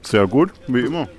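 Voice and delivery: talking while chewing; words round a mouthful of cereal; mouth full. Real, not acted. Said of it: "mit vollem Mund reden".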